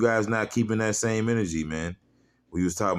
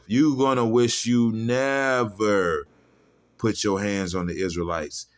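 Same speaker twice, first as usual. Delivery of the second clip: slow emphatic threat; 3 semitones higher, slower than usual. Real, not acted. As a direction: lean into every word like a preacher. Build-up repeating the threat.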